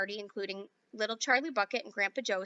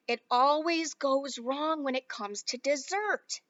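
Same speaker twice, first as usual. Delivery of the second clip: sigh; 2 semitones higher, slower than usual. Acted. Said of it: "sighed Mister Wonka".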